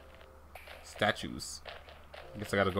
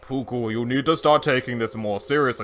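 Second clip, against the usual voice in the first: serious voice. Acted. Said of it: "like, a serious".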